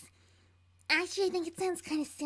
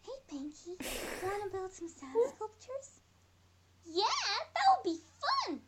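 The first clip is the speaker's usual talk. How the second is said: cartoon pony voice; 5 semitones higher than usual. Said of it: "Those voice cracks?".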